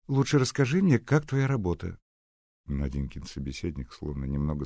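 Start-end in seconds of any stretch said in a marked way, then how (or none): 0.1-2.0 put-on curious girl. Nadya asks Seryozha.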